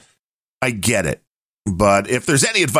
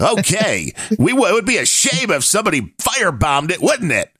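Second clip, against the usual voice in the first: Sopranos mobster; 6 semitones higher than usual. Retold or imitated. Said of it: "the Tony Sopranos guys are showing up like".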